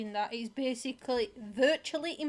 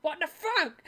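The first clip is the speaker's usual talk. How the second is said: loud, indignant comic rant; mock outrage; 4 semitones higher, 9 dB louder than usual. Acting out Jesus finding no figs, hammed-up outrage. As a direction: rant as if personally wronged by a tree.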